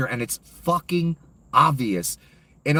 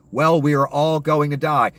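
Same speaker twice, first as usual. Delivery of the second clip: louder, indignant quote of the senator; mocking senator; 2 semitones higher, 4 dB louder than usual. Host repeats the senator's words to viewers, louder and scornful. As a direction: throw her words back with scorn. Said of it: "For her to say".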